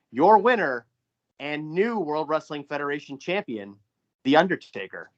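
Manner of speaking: lightly hammed-up announcer crowning the champ; ring announcer call. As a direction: announce the new champion to the arena. Ring announcer style results call.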